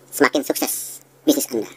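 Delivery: slow soothing sales suggestion; slow suggestive. Shown as a demonstration. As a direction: let it sink in slowly. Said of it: "Semakin Anda sering praktek".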